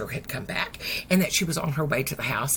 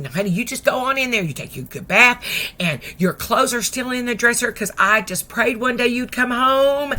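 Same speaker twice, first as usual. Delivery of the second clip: higher, quick motherly fussing; doting mama; 4 semitones higher, 5 dB louder than usual. Retold or imitated. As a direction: reassure your child eagerly. Mama fusses over returned daughter.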